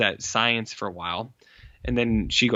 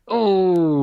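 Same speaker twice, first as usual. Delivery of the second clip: high, louder startled yelp; 7 semitones higher, 5 dB louder than usual. Retold or imitated. The nerd, confronted by mobsters, yelps in fright. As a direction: gasp it out like a cornered nerd. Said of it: "they're just like".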